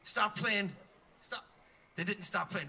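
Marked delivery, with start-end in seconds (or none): 0.0-1.5 slow urgent plea. Retold or imitated. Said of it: "and I go".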